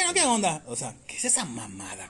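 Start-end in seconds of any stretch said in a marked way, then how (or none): 0.0-0.6 high mock Yucatecan voice; mock exaggerated accent. Mocking comics who fake the Yucatecan accent. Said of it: "nadie habla así".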